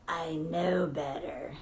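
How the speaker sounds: heavy self-blaming mutter; heavy self-reproach. Shown as a demonstration. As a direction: let each word drag like a weight. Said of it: "It sounds more like".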